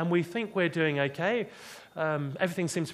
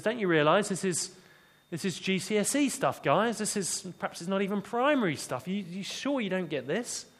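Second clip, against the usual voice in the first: gentle sarcasm; 3 semitones higher than usual. Retold or imitated. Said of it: "with some gentle sarcasm".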